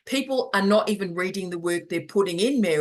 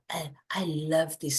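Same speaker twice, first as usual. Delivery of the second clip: gushing soap star; 4 dB quieter than usual. Retold or imitated. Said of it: "So it's like".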